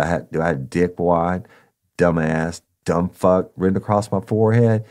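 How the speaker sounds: retold angry cop. Cop repeats, louder, confronting.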